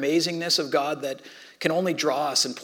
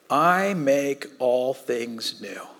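slow, solemn; 3 semitones lower, much slower than usual. Acted. God speaking from throne.

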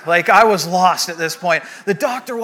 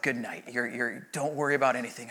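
soothing; 7 semitones lower, 11 dB quieter than usual. Retold or imitated. Anesthesiologist soothing patient before sleep.

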